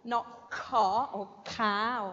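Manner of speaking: ka said slowly, without the w of qua; slow wrong take on the first syllable ka; ka, the wrong start for qualifications; wrong sound. Shown as a demonstration. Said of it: "it's qua, not".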